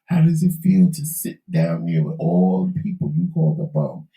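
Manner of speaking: hoarse, failing voice; losing voice. Real, not acted. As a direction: voice giving out, hoarse and breathy. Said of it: "I don't know why I'm losing my voice".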